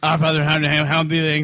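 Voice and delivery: rattled-off, mumbled mock prayer; mock rote recitation. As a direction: imitate a congregation droning through by rote. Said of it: "how the Catholics do it".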